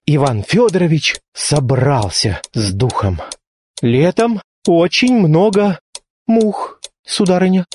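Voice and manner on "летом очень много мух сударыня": shy, trembling, slow and halting; nervous suitor forcing out small talk; half-trembling voice. Acted. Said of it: "произнёс он полудрожащим голосом".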